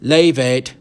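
loud, sharp command; acted leader snapping an order; barked order. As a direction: bark it out at the gang. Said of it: "the leader barked".

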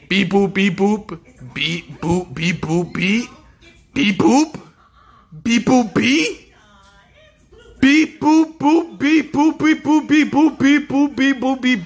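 high droid beeping; robot beeps. Retold or imitated. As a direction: chirp it like a little robot. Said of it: "I heard him say".

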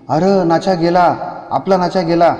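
a villager crying out the news of a death; village outcry. Acted. Villagers cry out. (गावकऱ्याची मोठ्याने बोंब)

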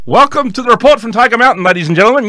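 loud, high hammed-up Indian accent; a self-mocking Indian accent, played big; terrible Indian accent. Host opening his show, in a hammed-up Indian accent. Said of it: "my terrible, uh, Indian accent".

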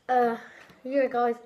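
candy in mouth; chewing while talking. Real, not acted. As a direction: hand over mouth eating. Seen 4: Hand brings red candy string to mouth, chewing while talking.

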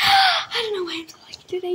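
fast laughing whisper; hushed happy giggle; giggly whisper. Real, not acted. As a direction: giggle it out breathlessly. Lucky moment in game.

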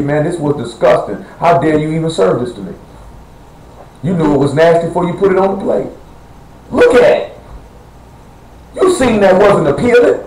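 mock disgust. Preacher acting out a husband handed nasty food, mock disgust. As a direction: play up being put off by the plate.

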